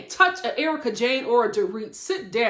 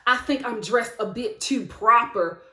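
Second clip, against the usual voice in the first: Sutton. Retold or imitated. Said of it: "And then Sutton was just like".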